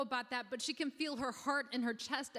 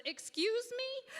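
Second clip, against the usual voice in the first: an indignant, sky-high squeak of surprise; affronted excuse me; 12 semitones higher than usual. Acted. Professional artist self taking offence at being called a sellout, high indignant squeak. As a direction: pitch leaps way up in offended disbelief.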